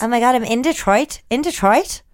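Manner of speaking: put-on American exclamation; American accent, repeated to test it. Shown as a demonstration. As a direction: play an American naming the city. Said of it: "Let me think of my American".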